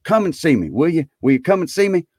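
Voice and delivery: high, pleading invitation; eager Scrooge. A narrator's reading.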